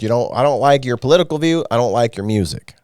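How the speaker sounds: a hint of a grumbling redneck fan. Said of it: "Now I'm doing my redneck voice".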